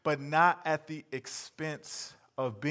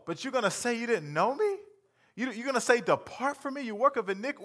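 pleading protest; 6 semitones higher than usual. Pretend. Pleading with Jesus.

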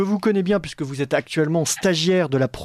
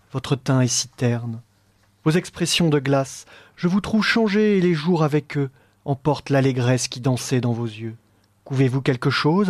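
measured, lower theatrical poem reading; poem recitation; 3 semitones lower than usual. Acted. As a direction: recite it like a stage role. Reads the poetic dialogue aloud.

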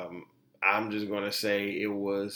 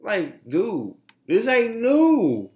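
exasperated; 9 semitones higher, 7 dB louder, much slower than usual. Real, not acted. Exasperated rant at critics.

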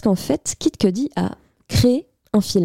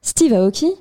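English accent. Shown as a demonstration. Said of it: "avec mon accent anglais également de qualité".

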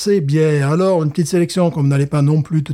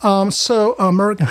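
put-on jokey American accent; mock American accent, laughing; 6 semitones higher than usual. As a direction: say American the way an American would, amused. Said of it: "l'accent américain".

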